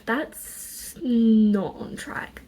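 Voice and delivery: slow whispered aside; whispering. Real, not acted. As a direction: whisper it slowly to yourself. Repeats it as an aside.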